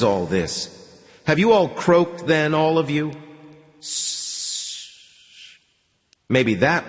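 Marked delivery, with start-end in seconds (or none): 1.3-3.1 exasperated. Acted. Frustrated at silent radio. 3.8-5.6 hissing radio static; long whispery hiss. Acted.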